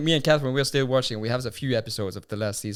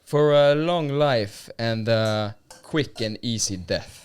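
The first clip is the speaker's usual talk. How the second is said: solemn toast; 3 dB louder, slower than usual. Acted. Friend making a dramatic toast to his podcast mates, slow and grave. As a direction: raise the glass and intone it like an old saga. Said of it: "I always wanted to say that".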